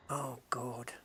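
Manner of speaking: breathy whisper of dismay; whispered oh God. Real, not acted. Gamer whispering at the material haul, whispered dismay. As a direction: whisper it, overwhelmed.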